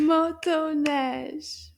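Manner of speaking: Motoneige slowly, in three loud separate beats; syllable by syllable. Shown as a demonstration. Teacher has children count syllables, Motoneige in slow separate beats. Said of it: "How many did you count?".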